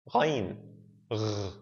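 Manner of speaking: "Ghain", then "Gh" alone like a French R; Arabic gh sound. Shown as a demonstration. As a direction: demonstrate "Gh" as a uvular French-style r. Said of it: "the French R".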